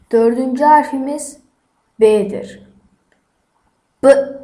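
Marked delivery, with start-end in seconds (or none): 4.0-4.4 B pronounced as its sound, not "be"; letter sound demo. Shown as a demonstration. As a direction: say B as a short, forceful "bı". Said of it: "diye okunur". (B'yi kısa "bı" sesiyle söyle)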